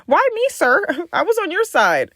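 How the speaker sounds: high, loud, laughing protest; laughing disbelief. Real, not acted. Asking the nail tech why he attacked her, laughing. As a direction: plead with mock outrage through a laugh. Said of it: "laughing disbelief".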